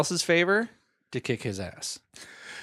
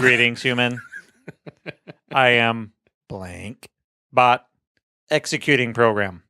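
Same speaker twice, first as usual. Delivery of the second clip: put-on old speech synthesizer; 4 semitones lower than usual. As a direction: read it like a clunky computer. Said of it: "I'll get into character".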